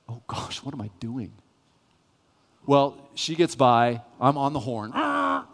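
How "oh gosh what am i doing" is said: much softer, whispered realisation; quiet aghast whisper to yourself; shocked whisper. Retold or imitated. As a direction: whisper it as the guilt hits. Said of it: "a glint of fear in her eyes".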